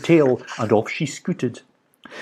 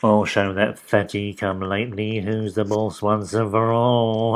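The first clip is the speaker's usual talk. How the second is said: gibbering madly; 4 semitones lower, slower than usual. A narrator's reading. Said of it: "he gibbered insanely".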